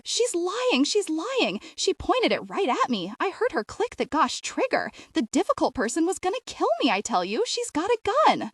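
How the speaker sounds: high, frantic accusing yell. A narrator's reading. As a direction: shout it at the officer, desperate. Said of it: "Earl yelled".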